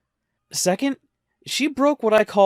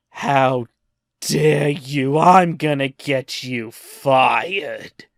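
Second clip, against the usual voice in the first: mock outraged customer; 2 semitones lower, 4 dB louder, much slower than usual. Offended customer threatening him.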